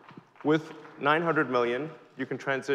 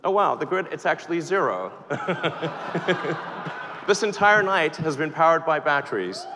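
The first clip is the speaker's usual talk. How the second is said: delighted surprise, half laughing, louder; excited; 4 semitones higher, 4 dB louder than usual. Real, not acted. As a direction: show off the reveal with a real thrill. Live reveal of the power meter.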